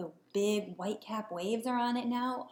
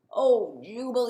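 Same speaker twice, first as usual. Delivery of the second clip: groaning; 5 dB louder, slower than usual. Acted. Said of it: "he groaned".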